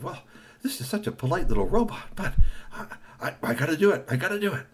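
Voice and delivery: high, torn admission; lightly voiced reluctant vendor; guilty vendor. Vendor feeling guilty, high torn voice.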